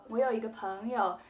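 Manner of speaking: 太多那个，说得很快; too many fillers. Shown as a demonstration. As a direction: stumble over 那个 again and again. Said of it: "don't say it really quickly".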